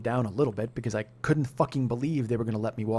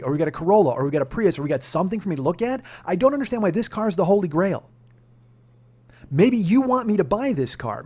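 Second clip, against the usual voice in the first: higher, emphatic customer's protest; retold arguing; 6 semitones higher, 3 dB louder than usual. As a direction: build an indignant case against the salesman. Retold argument with car salesman.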